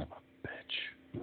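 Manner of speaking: slow, fed-up whispered curse. Real, not acted. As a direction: breathe the curse out slowly. Frustrated aside at failed setup.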